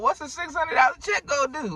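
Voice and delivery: very high-pitched acted gripe; mock exasperated complaint. Voicing a worker worn down by the job, mock exasperated complaint.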